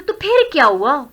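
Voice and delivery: "फिर" lifted up in the question; rising intonation. Shown as a demonstration. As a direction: raise the voice on "फिर क्या हुआ". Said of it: "This is rising intonation". ("फिर क्या हुआ" में उठती आवाज़)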